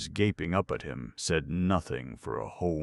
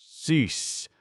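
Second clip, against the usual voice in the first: much higher, loud shrill orders; a woken sleeper crying out to stop; shuddering commands; 11 semitones higher, 7 dB louder, much slower than usual. A narrator's reading. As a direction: shout him down to stop the noise. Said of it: "shuddered Sleeperoo".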